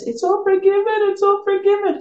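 mild high teary voice imitating the crying mother; a touch of the mother's tears; retold crying. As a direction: echo her tearful words, lightly voiced. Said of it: "And she's crying now".

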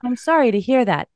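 even, scripted customer service voice; polite chatbot. Acted. Chatbot escalating an angry caller to a manager, evenly polite. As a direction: play an AI agent untouched by the abuse. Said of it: "And it's like".

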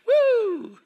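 high loud whoop. Real, not acted. Ex-convict whooping at his wild past, excited whoop.

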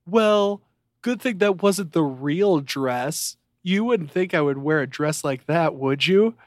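mocking the wife. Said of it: "And she's like".

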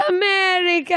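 high, exaggerated Jewish man accent. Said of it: "that weird Jewish man accent".

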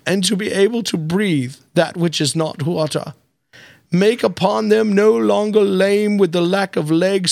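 put-on frail old British man reading a prayer; dying sick man voice. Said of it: "The dying sick man voice".

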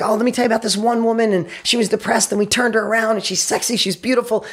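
enthusiastic coach. Retold or imitated. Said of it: "She's on fire, enthusiastic".

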